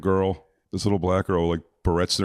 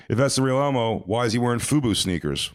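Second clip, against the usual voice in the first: put-on higher, taunting kid voice; smart-aleck kid; 4 semitones higher than usual. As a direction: catch him out like a bratty kid. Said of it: "he goes".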